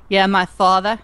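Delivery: put-on lightly drawled "father" in a southern Boston accent. To friends, showing how her father's people talk, hint of southern Boston accent. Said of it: "but they go".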